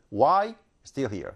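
"Why still here?" drawn out slowly, stressing WHY; slow keyword stress. Shown as a demonstration. Teacher repeating the heard words slowly for students. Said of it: "이 정도만 발음이 들립니다".

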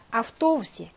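아프토우시 with stressed 토. Shown as a demonstration. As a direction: lean on the o of 토 in 아프토우시. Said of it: "강세 있습니다".

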